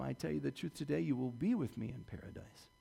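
Jesus reassuring the repentant thief softly; gentle promise. Acted. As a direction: comfort a dying man.

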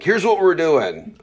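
loud, high, slow decree; top-down announcement. Acted. Boss telling people the plan top down, commanding. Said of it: "like, top down being like".

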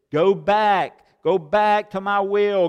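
loud, firm call to come back; God calling back. Retold or imitated. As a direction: command them to return, loudly. Preacher voices God calling back.

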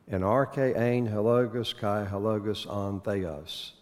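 every beat of "arche ein hologos" marked evenly; reading with rhythm. Shown as a demonstration. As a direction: lean into the meter of "kai hologos on theos". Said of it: "Now catch the rhythm".

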